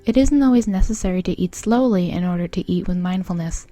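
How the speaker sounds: measured, evenly paced mindfulness guide; guided meditation. Acted. Guiding a listener through eating food mindfully, guided meditation voice. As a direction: lead them through it calmly, pausing between phrases.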